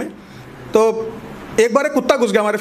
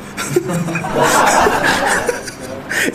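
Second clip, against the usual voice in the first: silent wheezing laugh; 4 semitones lower than usual. Real, not acted. Comic laughing at own joke.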